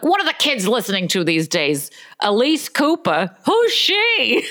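puzzled question climbing to a high finish; clueless columnist. Acted. Host mocking a columnist who discovers a rock singer, clueless questioning. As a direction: play an out-of-touch advice columnist.

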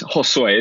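"Josue" with a Spanish H sound at the start; Spanish name pronunciation. Shown as a demonstration. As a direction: say "Josue" as Ho-sway. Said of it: "It's Joshua in Spanish".

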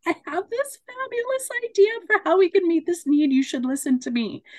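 high-pitched gushing interruption; excited butting-in, easing down at the end; eager interrupter. Acted. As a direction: burst in with an idea, pitch way up.

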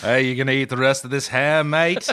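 lightly put-on British musician accent; a famous British musician. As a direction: lean lightly into British, landing on "mate". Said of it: "Shaq sounds a lot like a famous British musician".

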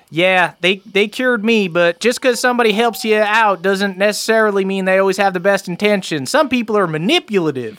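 high voice giving a cautious warning; Cooter. Acted. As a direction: speak up as a villager, pitched high. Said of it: "Cooter nods, and he goes".

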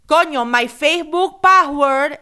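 loud, high mock-mom outburst; imitating mom. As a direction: cry it out as an accented mom impression. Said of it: "This is literally my mom".

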